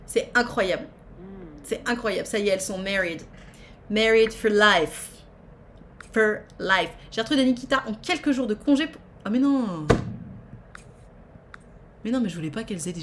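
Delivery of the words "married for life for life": drawn-out mock solemn. Playful English.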